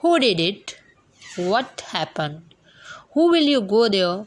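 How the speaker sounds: Who did it said with the pitch falling at the end; slow examples, each question dropping at the close. Shown as a demonstration. Teacher reads falling-tone examples for students. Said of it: "falling tone की हम example".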